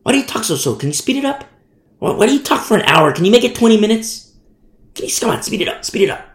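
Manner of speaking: mildly impatient mimicked listener; imitated complaint. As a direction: pester the speaker, lightly mocking. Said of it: "I've had these complaints before".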